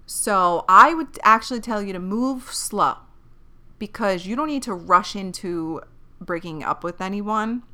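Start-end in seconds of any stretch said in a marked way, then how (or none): 3.8-7.6 voice cracking. Real, not acted. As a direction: voice cracking mid-sentence. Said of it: "I don't know why my voice cracked".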